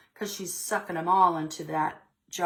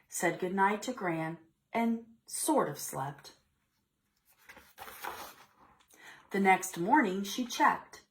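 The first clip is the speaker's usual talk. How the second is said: put-on expressive read-aloud to children; storybook reading voice; story narration; 3 semitones higher than usual. A narrator's reading. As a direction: read it like story time for little kids. Teacher reads picture book aloud.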